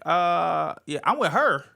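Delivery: embarrassed son. Retold or imitated. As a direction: beg them politely through laughter. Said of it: "I'm like".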